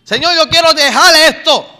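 loud, impassioned retold cry to God; anguished plea. Preacher retells begging God to set him free, anguished. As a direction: plead aloud as if reliving the anguish. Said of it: "llorando y llorando, angustiado, le decía".

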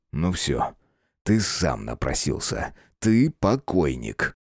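a friend's chilling promise to kill. Acted. Friend threatens the big man. (тихая угроза)

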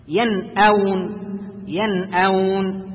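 ينأون with the noun said clearly before the hamza; slow, careful ينأون, noun fully sounded; اظهار النون; clear izhar. Shown as a demonstration. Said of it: "فنلاحظ هنا أن النون الساكنة".

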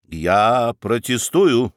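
slow, level, unyielding objection; stubborn protest. Acted. Münchhausen refusing to yield to the judge: slow stubborn objection. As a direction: hold your ground calmly and slowly. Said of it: "не уступал Мюнхгаузен".

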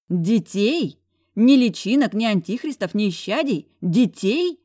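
high, loud indignant cry; outraged outburst. A narrator's reading. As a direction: flare up in outrage at him. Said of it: "Взвилась я". (возмущённый выкрик)

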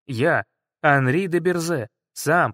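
ordinary delivery

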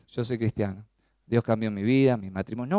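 low, soft, listless demonstration; mock unenthusiastic testimony. Shown as a demonstration. Believer testifying without any enthusiasm, demonstrated listlessness. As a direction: drop pitch and volume, drained of enthusiasm. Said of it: "No, hágalo con entusiasmo".

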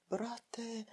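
plain reading voice

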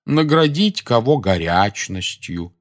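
slow drowsy reading; words dragging with sleep; sleepy reading. Acted. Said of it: "И до чего спать хочется?".

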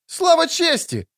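put-on a young squire taking up the cry; youthful voice. A narrator's reading. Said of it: "подхватил юношеским голосом другой". (юношеский голос, гораздо выше и медленно)

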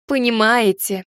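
smug and satisfied, falling. Acted. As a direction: nod it with satisfaction. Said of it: "кивнула я удовлетворённо".

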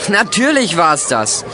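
slow, amused, laughing through it; enjoy the joke; laughing reply. Acted. Heino tells Claudia the hoax, laughing slowly.

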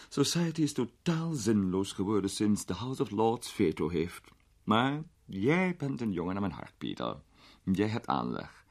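a hint of a grand old lady, amused; an elderly duchess teasing a young man; lightly voiced duchess, amused.

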